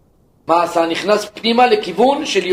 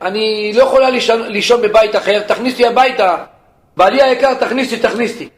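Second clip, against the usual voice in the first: pleading wife; 5 semitones higher than usual. Acted. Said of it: "שומע את אשתו מתחננת".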